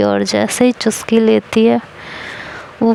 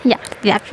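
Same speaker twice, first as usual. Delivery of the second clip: disgust; 4 dB quieter than usual. Real, not acted. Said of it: "coffee में नमक".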